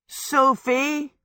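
high, drawn-out pleading call. A narrator's reading. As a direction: coax her with a plaintive appeal. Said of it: "Hal said pleadingly".

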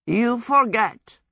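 slow, hoarse croak with a cold. A narrator's reading. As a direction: croak it out like a sick man. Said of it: "croaked Howl".

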